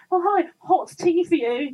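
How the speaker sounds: high, slow put-on American accent; American waiter. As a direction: mimic the American bar staff. Waiter voiced in story.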